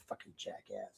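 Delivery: breathy whispered aside; whispered insult. Real, not acted. Insulting the sheriff under his breath, whispered. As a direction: hiss it under your breath.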